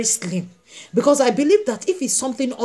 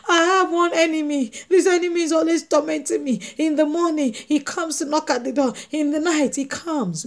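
mock crying complaint; 5 semitones higher than usual. Petitioner wailing to the judge about an enemy, mock crying. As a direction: wail out a pleading complaint. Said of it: "start crying".

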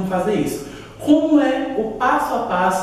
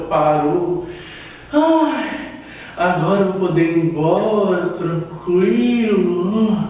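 relieved; 3 semitones lower, much slower than usual. Acted. Boy relieved the poop stopped.

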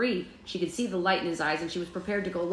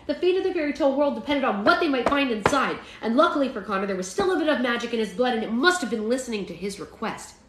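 animated, expressive storybook reading; story narration; 4 semitones higher than usual. A narrator's reading. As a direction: read it like an audiobook with lively emphasis. Reads a story aloud.

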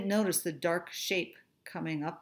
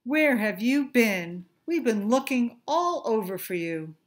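excited friends; 3 semitones higher, 6 dB louder than usual. Acted. Friends greet lost Stanley.

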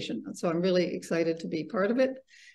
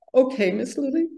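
higher-pitched, lightly voiced child holding back tears; mildly tearful; 7 semitones higher, 4 dB louder than usual. A narrator's reading. Angelina accepts her teacher's casting, a touch tearful. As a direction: answer meekly in a higher voice. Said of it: "wiping away her tears".

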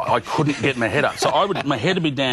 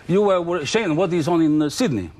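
raised, lightly put-on New Zealand accent; mock Kiwi accent; 7 semitones higher than usual. Imitating the driver asking Shane what's on in Sydney, light Kiwi accent. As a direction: play the chatty Kiwi driver, light and eager. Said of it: "Oh, those crazy Kiwis".

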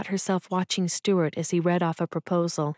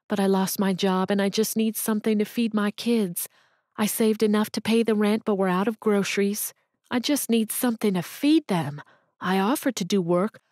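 a lightly voiced desperate mother, pitched up; pleading mother; 3 semitones higher than usual. Jobless mother begging the cashier for work, pleading. Woman explains, tears falling.

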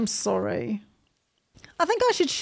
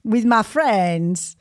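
put-on Mexican accent; slower than usual. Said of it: "how do Mexicans speak".

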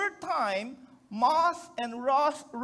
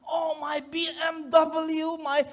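slow anguished cry over the car; crying in pain; 3 semitones higher than usual. Retold or imitated. Accident victim on the road wailing to medics. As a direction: wail for the lost BMW like it is the real injury. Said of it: "He was crying in pain".

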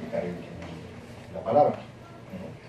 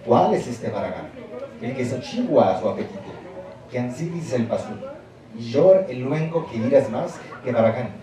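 Ladino reading. Shown as a demonstration. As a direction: read the old text out deliberately. Reads Ladino text for pronunciation.

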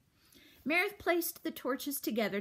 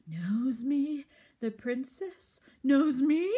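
hushed then rising creature whisper; awed whisper; 4 semitones higher, 5 dB louder, slower than usual. A narrator's reading. Roach whispering in awe to the princess. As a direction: breathe the question in wonder. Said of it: "the roach whispered".

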